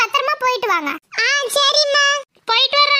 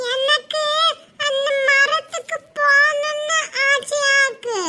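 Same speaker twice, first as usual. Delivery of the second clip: whiny crying plea; slower than usual. Acted. Child begging sister, crying.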